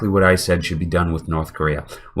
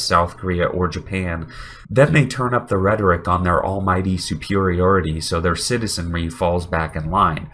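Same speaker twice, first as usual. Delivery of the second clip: deep, nasal voice from a cold; nasal sick voice. Real, not acted. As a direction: talk through a stuffy, sick nose. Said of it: "sorry for the deep nasally voice".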